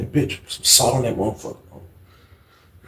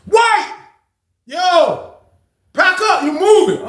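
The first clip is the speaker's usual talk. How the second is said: high call out; much slower than usual. Retold or imitated. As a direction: call the order through the cell door. Guard calling out in the cell.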